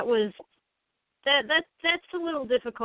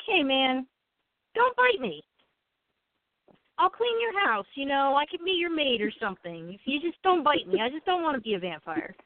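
pleading voice; 3 semitones higher than usual. Pretend. Pleading with a vampire.

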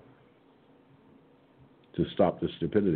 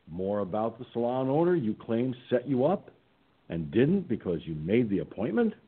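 sarcastic; 3 semitones higher than usual. Retold or imitated. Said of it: "said sarcastically".

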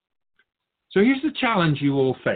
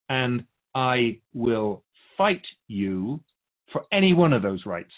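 slow, deliberate defiance; a slow, stubborn promise to fight; defiant vow; slower than usual. Acted. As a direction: spell out each word of the threat. Voicing humans claiming their rights.

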